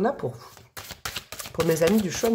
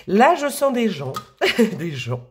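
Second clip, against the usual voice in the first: laughing; slower than usual. Real, not acted. Laughs at her own slip.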